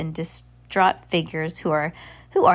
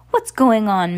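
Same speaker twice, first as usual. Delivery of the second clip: demanding; 3 semitones higher, 6 dB louder than usual. Acted. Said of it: "Mister Poe demanded".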